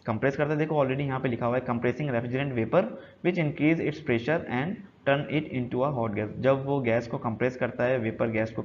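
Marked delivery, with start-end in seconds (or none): 1.6-6.3 the English line read out slowly; slow slide reading. Acted. Reads slide line again slowly. (धीमे-धीमे पढ़कर सुनाना)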